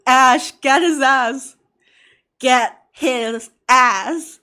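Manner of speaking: slow, loud cheering yell; drawn-out hype shout. Real, not acted. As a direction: stretch it out and shout. Hyping up, shouting at the screen.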